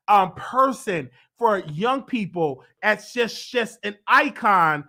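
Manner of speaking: choked up, pushing the praise out; tearing up. Real, not acted. Vlogger praising her idol, choked up and slow. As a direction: voice breaking, slow with emotion. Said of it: "I was tearing up".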